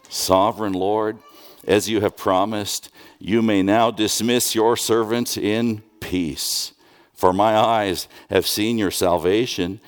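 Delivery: slow, measured reading of the psalm; scripture reading. Acted. Pastor reads Simeon's psalm to the congregation, slow and reverent. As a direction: read the psalm slowly and reverently.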